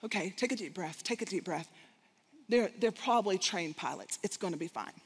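soft, low calming self-talk; quietly coaching herself through the fear. Retold or imitated. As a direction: talk yourself down gently. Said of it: "I fight a little bit".

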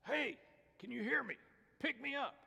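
high, squeaky little frog voice; high-pitched cartoon frog; talking frog. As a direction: call out as a tiny frog. Talking frog calls again.

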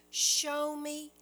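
urgent begging plea; pleading cry. Retold or imitated. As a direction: cry out to God for a sign. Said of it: "crying out".

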